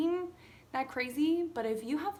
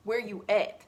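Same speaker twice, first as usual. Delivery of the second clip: louder and louder, urgent demand; retold frantic yell; 9 dB louder than usual. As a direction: yell it like you need the cat now. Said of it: "And I'm like".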